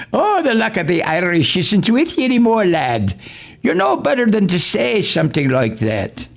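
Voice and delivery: high put-on voice, chiding; mock Trump scolding. Voicing Trump scolding Kevin, high mocking chide. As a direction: lift the voice and scold like a wounded boss.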